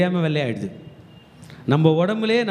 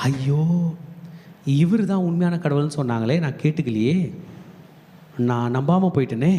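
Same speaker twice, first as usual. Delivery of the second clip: mock lament; 2 semitones higher than usual. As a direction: play the left-behind crowd wailing too late. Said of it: "என்று எல்லாரும் புலம்பலாம்". (புலம்பும் குரலில் நடித்து)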